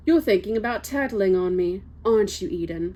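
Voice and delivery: put-on lightly posh, sinister young aristocrat; a hint of a posh, menacing schoolboy. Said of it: "Yeah, there we go, that's posh".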